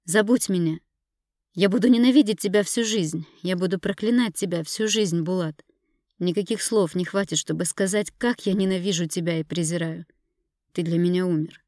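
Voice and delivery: loud, bitter and hateful; hateful curse. Acted. Wife cursing her husband before hanging up, hateful. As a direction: curse him for life.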